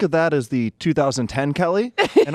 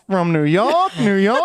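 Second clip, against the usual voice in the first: put-on old-timey radio voice; 4 semitones higher, slower than usual. Radio jingle cue repeated.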